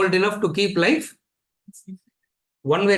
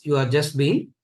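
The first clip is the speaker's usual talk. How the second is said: Yajnavalkya's verdict; 2 semitones lower, slower than usual. Retold or imitated. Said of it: "erases everything and calls".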